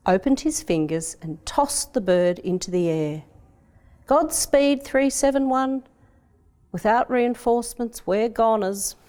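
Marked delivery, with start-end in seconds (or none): 4.1-9.0 higher, urgent soldier's farewell; urgent sergeant. Acted. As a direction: send the bird off with urgent hope. Sergeant sends pigeon off.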